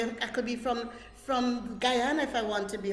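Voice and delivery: lightly put-on Guyanese accent. Shown as a demonstration. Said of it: "to sound like somebody else".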